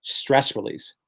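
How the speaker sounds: "stress release" breathed out as a soft whisper. Shown as a demonstration. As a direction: let it go on a whisper, like relief. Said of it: "pets provide stress".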